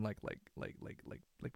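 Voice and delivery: soft breathy run of likes fading to nothing; exasperated near-whisper fillers; whispered trailing off. Real, not acted. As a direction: let it drain away under your breath.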